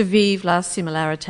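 amateur French accent. Real, not acted. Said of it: "my shocking French accent".

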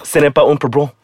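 put-on tentative French accent. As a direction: have a rough go in French. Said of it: "in the French accent".

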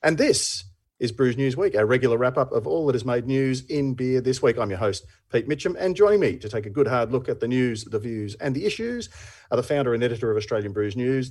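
announcer-style introduction; lightly hammed host intro; show host intro. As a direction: introduce the guests like a radio host.

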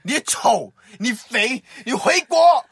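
mock drunk yelling insults; a hammed-up drunk tirade; drunken insults. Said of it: "我就罵他們".

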